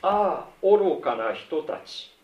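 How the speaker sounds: high, drawn-out cry of ah, foolish ones; a slow, lifted lament at the slow disciples; exclaiming Jesus. Acted. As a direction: let the ah lift, then stretch the words slowly. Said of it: "このイエス様は…こう言うん".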